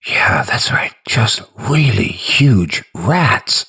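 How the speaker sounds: nervous breathy whisper, slowing down. A narrator's reading. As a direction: whisper it to calm yourself. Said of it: "you whisper".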